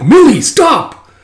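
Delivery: high, loud, drawn-out cry; mock scolding. Coworker stopping Millie's flirting, loud mock scolding. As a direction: cut her off in mock exasperation.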